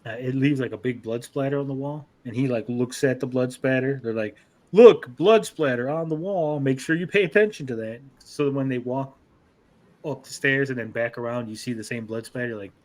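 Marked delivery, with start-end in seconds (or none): 4.7-8.0 mock telegraphing. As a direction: spell it out as if nobody could miss it. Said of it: "they, like, telegraphed it".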